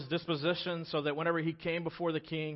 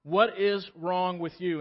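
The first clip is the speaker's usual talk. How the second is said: king's questioning; 3 semitones higher, 5 dB louder than usual. Retold or imitated. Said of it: "he's like".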